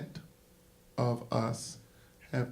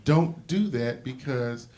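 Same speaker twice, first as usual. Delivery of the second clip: chastising parent; 3 dB louder than usual. Retold or imitated. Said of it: "they chastised their children and said".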